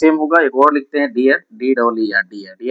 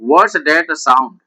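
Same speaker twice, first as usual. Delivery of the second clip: slow dictation; much slower than usual. Shown as a demonstration. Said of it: "अब देखिए यहाँ पर homophones".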